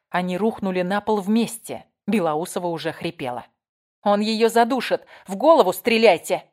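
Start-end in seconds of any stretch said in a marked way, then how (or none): 4.0-6.5 loud, higher urgent command; urgent shout. A narrator's reading. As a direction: yell the order to fire. Urgent order during shooting. (приказ стрелять: громкий крик)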